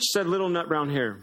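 gentle storybook read-aloud; lightly voiced storybook reading with small character voices; reading to children. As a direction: read it like a bedtime story to little ones. Reads picture book to children.

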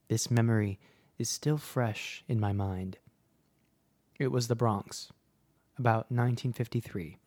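measured, reflective storytelling with pauses; story narration. A narrator's reading. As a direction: read it as a listener's childhood memory. Reads a listener's story.

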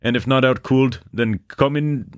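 high-pitched mock Canadian, "cold" said as "cooled"; hammed-up Canadian lilt, pitched high; bad Canadian accent. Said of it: "slander the Canadians with my bad accent".

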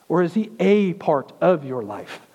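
"a" punched as a long "ay"; stress on "a". Real, not acted. Preacher asking if he is only part of life, "a" stressed. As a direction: lean hard on "a" before "part", as a challenge.

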